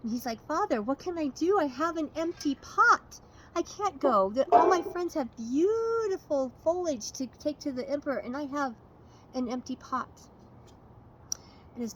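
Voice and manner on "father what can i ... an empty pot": put-on pleading higher and louder, a boy near panic; a son begging his father for a way out; anxious pleading. Ping begs his father about the empty pot, higher and anxious.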